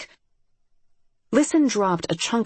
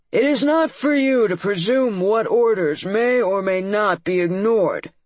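imperious monster lord; 4 semitones higher, 4 dB louder than usual. Acted. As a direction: lord scolds a servant. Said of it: "a slurred voice".

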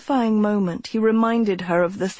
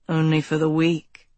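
smiling; 4 semitones lower than usual. A narrator's reading. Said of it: "a smile in his voice".

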